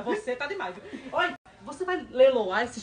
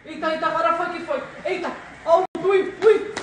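on a roller coaster; 2 semitones higher, 3 dB louder than usual. Pretend. Roller coaster drop, wind.

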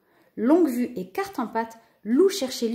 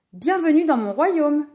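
high, loud kingly greeting; grand welcome; 5 semitones higher, 5 dB louder than usual. A narrator's reading. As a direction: proudly welcome a guest to the realm. Poseidon grandly welcomes Lou.

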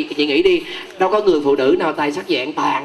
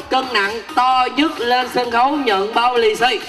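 upbeat MC calling out to the crowd; lively stage announcer; game show host; 4 semitones higher than usual. Acted. MC calling contestants up.

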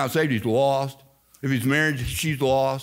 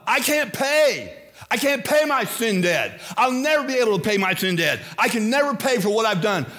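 pleading sinner; 6 semitones higher than usual. Acted. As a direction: beg like a sinner who can't pay.

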